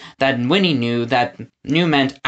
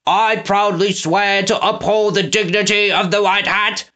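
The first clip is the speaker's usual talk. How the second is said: Snatcher repeating; 6 semitones higher than usual. A narrator's reading. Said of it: "Snatcher repeated".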